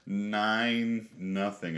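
very slow, drawn-out Nine nothing; slow dismayed repeat. Acted. Co-host echoing the losing score, dragging out the words. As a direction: stretch Nine nothing out in disbelief.

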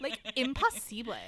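put-on Valley Girl Spanish lilt on "impossible"; bubbly Valley Girl Spanish accent. Shown as a demonstration. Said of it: "Valley Girl Spanish accent".

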